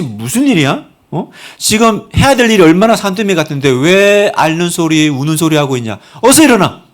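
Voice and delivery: imagined God harshly scolding Elijah to get up; scolding rebuke. Pretend. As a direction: scold a worn-out servant and end with a shouted command. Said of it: "꾸짖거나 책망하지 않으세요".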